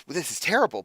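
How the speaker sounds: mildly excited, punching "terrible"; excited despite the grim news; still sort of excited. Acted. Hermit hears a terrible tale like a story, mildly excited. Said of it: "he's still sort of excited".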